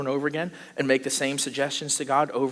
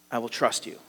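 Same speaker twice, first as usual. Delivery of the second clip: quiet surrender; 7 semitones lower, 9 dB quieter than usual. Acted. Surrender after the demanding prayer.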